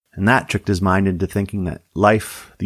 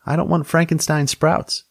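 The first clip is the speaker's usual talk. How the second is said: fussy Tammy voice; 9 semitones higher than usual. A narrator's reading. Tammy insists.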